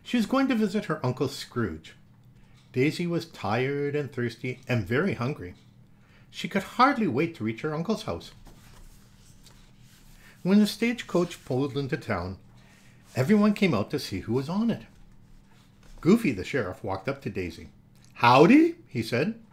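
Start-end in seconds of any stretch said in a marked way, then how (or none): 0.0-17.7 put-on lively read-aloud for children; animated children's story reading; storybook narration. 18.1-18.7 Goofy. Acted. Goofy sheriff greeting.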